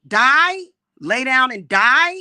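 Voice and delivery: angry outburst. Real, not acted. Angry rant at haters.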